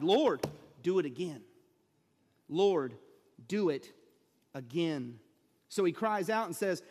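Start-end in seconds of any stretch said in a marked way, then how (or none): 0.0-5.2 pleading prayer cry. Retold or imitated. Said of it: "We cry what Habakkuk cried".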